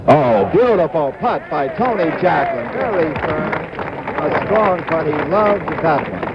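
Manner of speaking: high, bright rise on a great putt; excited golf call. Real, not acted. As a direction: lift the voice, thrilled by the putt.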